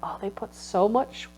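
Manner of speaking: soft, fading, close to tears; quiet sorrow. Retold or imitated. Grieving the unfinished masterpiece, softly sorrowful. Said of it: "I was like".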